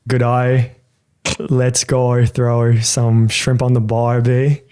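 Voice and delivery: American trying an Australian accent, a little slow. Shown as a demonstration. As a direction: say it like an Aussie. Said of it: "say in an Australian accent".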